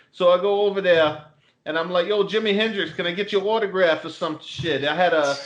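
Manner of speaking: a hint of Boston tough guy telling a story; Boston accent. Teasing cohost with a Boston accent story. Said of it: "once you get into that Boston accent".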